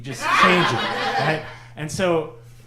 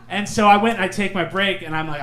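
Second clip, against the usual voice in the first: ordinary talk, nothing marked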